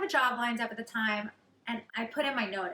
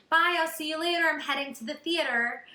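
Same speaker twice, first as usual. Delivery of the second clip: breezy pretend confidence; 4 semitones higher, 3 dB louder than usual. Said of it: "as if I was already living my dream life".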